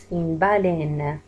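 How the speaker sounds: slow, drawn-out "Une baleine"; outward open è. Shown as a demonstration. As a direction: model the open è in "baleine" for learners. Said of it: "وكأنه الإي هذيك خرج فيها برا للخارج".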